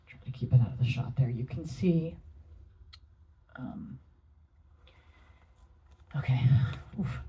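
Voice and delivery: talking while chewing gum. Real, not acted. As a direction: speak around a piece of gum. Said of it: "forgive my gum".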